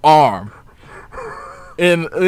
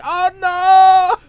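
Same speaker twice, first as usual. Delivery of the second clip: high, loud mock panic; hammed-up scared cry; imitating panic; 9 dB louder than usual. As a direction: shriek like a cartoon coward. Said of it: "he's like".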